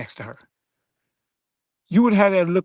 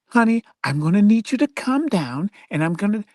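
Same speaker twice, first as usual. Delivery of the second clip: passive aggressive; 4 semitones higher than usual. Retold or imitated. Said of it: "like that".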